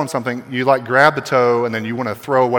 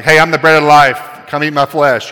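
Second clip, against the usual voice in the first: odd stranger; 7 dB louder than usual. Retold or imitated. Weird guy at Walmart.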